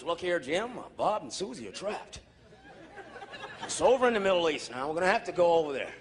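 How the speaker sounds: low, gruff mock white politician; white officials. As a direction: play a stern old official rallying the room. Voicing white officials' meeting.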